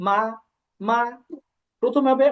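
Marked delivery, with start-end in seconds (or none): 0.1-1.0 মা in an unmarked, normal tone; neutral tone. Shown as a demonstration. Teacher showing students the neutral tone on মা. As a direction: say মা plainly with no tone. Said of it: "একেবারে normal".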